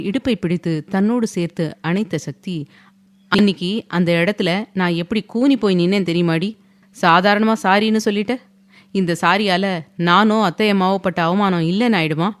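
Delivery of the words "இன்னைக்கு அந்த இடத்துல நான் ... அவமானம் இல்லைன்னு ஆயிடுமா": hard, deliberate stress on each word; every word pressed. A narrator's reading. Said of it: "ஒவ்வொரு வார்த்தையும் அழுத்தி". (ஒவ்வொரு வார்த்தையையும் அழுத்திக் கேட்கும் குரல்)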